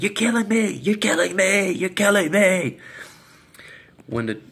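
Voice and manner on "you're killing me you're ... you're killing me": mimicking a woman wailing, words drawn out; retold drawn-out plea; imitated cries.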